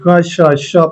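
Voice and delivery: क cut to a half sound joined onto श; teacher showing half क running into श; half-consonant demo. Shown as a demonstration. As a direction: say क short, blending into श. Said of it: "इसको पूरा नहीं पढ़ेंगे, ये आधा है".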